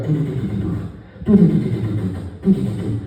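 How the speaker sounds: droning doo doo of a big fan; fan noise imitation. Husband mimicking the bedroom fan droning on. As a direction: hum it like a whirring fan.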